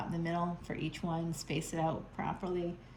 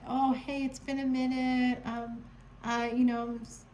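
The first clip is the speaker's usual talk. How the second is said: higher, airy mock of a ghoster, fast at the end; fake casual ghoster; 5 semitones higher than usual. Reader mocking a ghoster returning as if nothing happened. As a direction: pretend nothing happened, hammed up. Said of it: "as if they didn't ghost".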